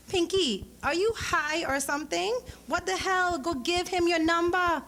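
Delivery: best friend scolding Pinky to give her number, high and insistent; exasperated friend Leslie. Acted. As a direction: push her friend to go get the guy. Leslie urging Pinky to act.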